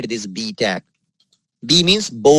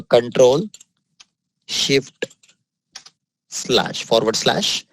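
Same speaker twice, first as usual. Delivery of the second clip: key by key; slower than usual. Real, not acted. Spelling out the shortcut key by key.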